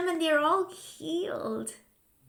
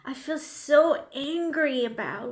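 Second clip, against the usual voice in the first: mild modeled anger; 5 dB louder than usual. Shown as a demonstration. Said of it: "Under the nose as you tap".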